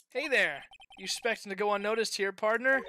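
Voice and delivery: lightly voiced cowboy lawman hailing a stranger; Wild West marshal. Marshal catching the attorney at the crime scene, cowboy challenge.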